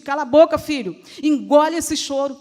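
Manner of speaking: loud mock scolding of a child; imitated impatient mum, forceful; scolding mother. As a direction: order the child sharply to stop. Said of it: "como muitas mães dizem".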